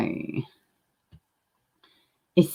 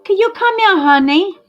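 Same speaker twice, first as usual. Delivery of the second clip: high, louder mock sing-song call; mimicking the caller; 7 dB louder than usual. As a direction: copy the woman in the clip calling out. Echoing the video's caller.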